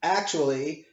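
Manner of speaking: a stiff, halting ruling in a light put-on voice; imitating the magistrate. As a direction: read the ruling the way she stumbled through it. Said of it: "her wisdom announced her decision on the record".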